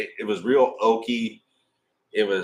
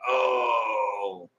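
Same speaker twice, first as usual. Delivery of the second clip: mock shout; 3 dB quieter than usual. Retold realization of expensive whiskey.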